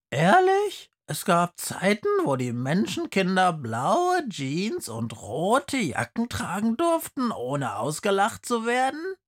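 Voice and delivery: high, disbelieving outburst; can't believe it; astonished pupil. Acted. Polar bear pupil to the teacher, astonished.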